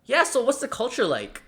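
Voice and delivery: high, careless tossed-off question; lazy generic question. Shown as a demonstration. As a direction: ask it like you didn't prepare. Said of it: "A bad question to ask is this".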